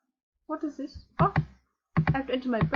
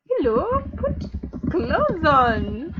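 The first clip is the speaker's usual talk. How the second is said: loud call-out; 3 semitones higher, 5 dB louder, much slower than usual. Acted. To a naked avatar, a loud telling-off. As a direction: call out to cover up. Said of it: "I could just say".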